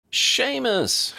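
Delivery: high, loud call across the terminal. A narrator's reading. Harry spotting his old friend, calling out loud. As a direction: call him over from a distance. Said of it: "Harry called".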